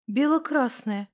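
plain reading voice

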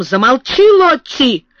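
sudden high, exasperated scolding; flustered stern warning; threatening. A narrator's reading. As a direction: order a child to stop, peaking on the name. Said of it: "начинала совсем другим тоном".

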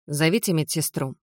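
calm, level command; calm order. Acted. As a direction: give the order without raising the voice. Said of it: "спокойно приказала я". (спокойный приказ)

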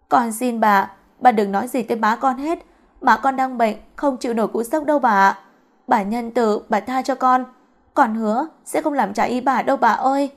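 acted, earnest begging; mildly distressed appeal for mercy; tearful pleading. Girl begs mistress to spare her sick mother, tearful pleading. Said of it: "vừa khóc vừa van xin".

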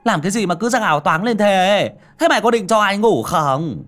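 furious shout at a friend who woke him; irritated snap. Acted. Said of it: "gắt gỏng".

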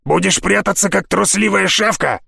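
mild mock shout. A narrator's reading. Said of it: "и крикнул".

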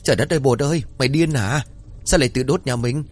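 put-on old man yelling at the fool boy; scolding. A narrator's reading. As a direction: rush in and chew him out. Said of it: "lão vội lao tới rồi chửi".

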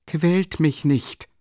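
high, slow irritated plea. A narrator's reading. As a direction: drag it out, sharply annoyed. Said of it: "mit einer gereizten Bewegung".

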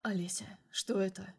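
a bewildered question, barely whispered; puzzled whisper. A narrator's reading. Boss whispers to his secretary in confusion. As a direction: breathe it out, confused, in the dark. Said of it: "недоумённый вопрос".

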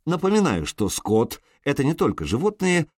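plain reading voice

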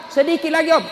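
high lightly voiced boy begging; a hint of a kid stalling; boy's reply. Boy answering while playing.

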